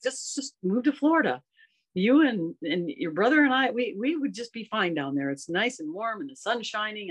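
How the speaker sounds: a light high pleading voice for her confused mother. Retold or imitated. Mother in memory care pleading with daughter, lightly voiced. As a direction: gently beg to be taken home.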